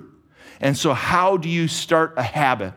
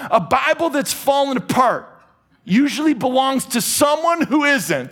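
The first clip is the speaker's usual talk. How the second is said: put-on high, forceful old preacher quoting voice; older cigar-smoking preacher; 8 semitones higher than usual. Quoting Spurgeon to the congregation as an old cigar-smoking preacher. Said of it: "gotta get an, an older preacher in that smokes a lot of cigars".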